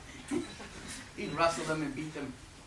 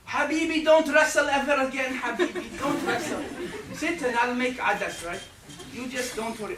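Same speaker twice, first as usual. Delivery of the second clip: high, loud, doting Arab mother pleading with a laugh; Arab mom; 8 semitones higher, 5 dB louder than usual. Retold or imitated. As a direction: coddle your son, begging him to stop. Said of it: "I wanted the Arab mom".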